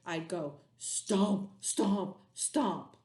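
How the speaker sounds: slow, heavy mock angry stomps; mild mock anger; mad monster stomp. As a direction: stomp out each word like a cross monster. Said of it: "if I were a mad monster".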